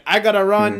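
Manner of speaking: imitated Hungarian accent. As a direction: put on a Hungarian friend's accent. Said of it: "so this is his accent".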